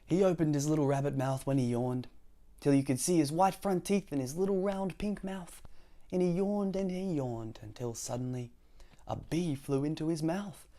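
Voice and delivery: lively, projected storytelling voice; story reading to children. Acted. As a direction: read it aloud to little listeners.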